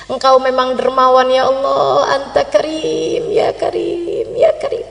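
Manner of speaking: slow, drawn-out praise to God; slow devotional musing; grateful prayer. Acted. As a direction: savor each phrase, softening as it repeats. Grateful prayer of old traveler.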